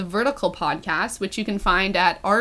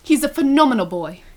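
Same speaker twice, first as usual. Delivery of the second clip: lightly put-on British accent; 2 semitones higher than usual. Reading Ben's praise of Harry, mild mock British accent. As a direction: read it with a touch of British. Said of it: "British accent".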